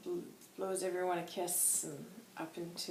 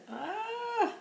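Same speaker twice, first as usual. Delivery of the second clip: high, sustained "ah" swelling louder; sung "ah"; 6 dB louder than usual. Real, not acted. Groping for a forgotten tune, a high held sung note. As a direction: reach up for a long high note. Botched attempt at singing a tune.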